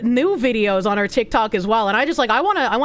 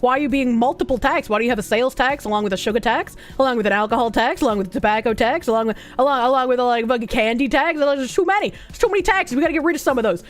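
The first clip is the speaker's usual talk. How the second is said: put-on Boston accent; faster than usual. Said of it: "with my fucking Boston ass accent".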